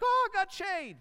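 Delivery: high, delighted squeal; gleeful relief at the shade; happy Jonah. Acted. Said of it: "And it's like".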